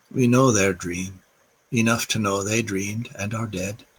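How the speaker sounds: a lightly put-on Irish accent for a poem reading; reading Yeats aloud in a mild, hammed-up Irish accent; bad Irish accent. Reading poetry to listeners in quarantine, in a light put-on Irish accent. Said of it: "I started reading that with a bad Irish accent".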